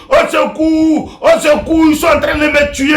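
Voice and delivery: hammed-up victim crying murder; mock cry for help. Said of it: "Et puis elle crie". (faux appel au secours, aigu et crié)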